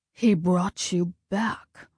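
lightly voiced ominous god; Ares voice. A narrator's reading. Ares, slow far voice.

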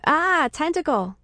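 startled, mildly panicked exclamation; startled cry. Acted. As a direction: cry out at a sudden attack. Narrator suddenly attacked by tentacle.

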